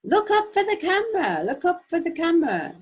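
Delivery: high, loud barked order; imitated scream. Police shouting at the prisoner to look up, loud. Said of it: "they're screaming".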